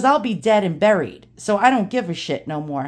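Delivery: lightly imitated old Brooklyn straight talker; Ronnie's New York accent. Dad's friend confides a warning, light New York accent. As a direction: put on a touch of old-timey New York. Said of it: "total New York accent".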